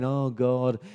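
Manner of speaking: mock-petulant whine; whining complaint. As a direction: grumble at God like a sulky brat. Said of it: "they started to grumble and whinge and complain".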